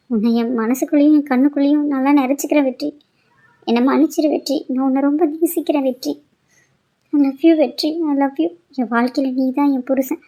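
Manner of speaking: put-on girl confesses love while leaving, softly tearful; tearful farewell. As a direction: whisper your love as you say goodbye.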